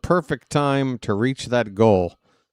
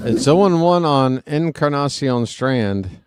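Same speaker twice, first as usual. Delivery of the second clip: laughing; 2 semitones higher, 4 dB louder than usual. Real, not acted. Still laughing after big laugh.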